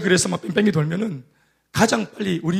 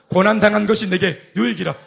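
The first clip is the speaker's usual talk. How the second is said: congregational reading. Real, not acted. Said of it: "같이 시작".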